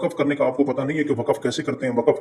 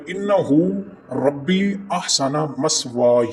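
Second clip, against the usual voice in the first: slow recitation; slower than usual. Shown as a demonstration. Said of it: "ये है".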